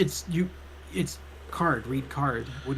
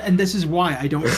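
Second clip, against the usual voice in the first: breaking into laughter; 3 semitones higher than usual. Real, not acted. Reader stumbles over switching voices, breaking into laughter. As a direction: break character and crack up.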